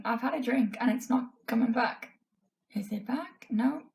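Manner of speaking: hoarse, voice giving out. Real, not acted. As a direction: talk through a fading, hoarse voice. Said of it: "I'm just losing my voice".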